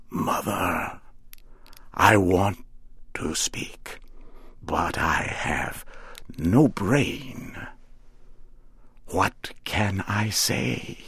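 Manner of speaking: faint, breathy whisper of a new-made scarecrow; barely manage the words; small whisper. A narrator's reading. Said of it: "said in a small whisper".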